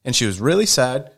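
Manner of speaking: high-pitched, insistent comeback, retold; retold indignant confrontation. Uncle retells confronting the boy's parents, indignant.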